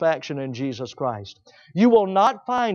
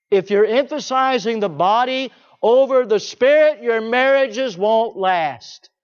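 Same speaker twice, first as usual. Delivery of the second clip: preached warning; 4 semitones higher, 4 dB louder than usual. Real, not acted.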